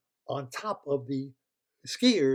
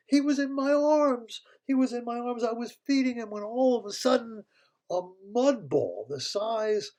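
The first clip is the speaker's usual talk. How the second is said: distraught queen; 2 semitones higher, 3 dB louder than usual. Acted. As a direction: tell it breathless with worry. Queen tells the kidnapping story.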